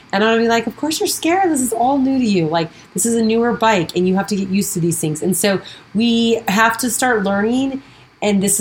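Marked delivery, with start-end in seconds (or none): 0.7-5.2 put-on higher, gentle coaxing as if to a nervous kid; comforting inner coach voice; reassuring self-talk. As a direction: soothe your own fear on the new bike. Comforting her scared self.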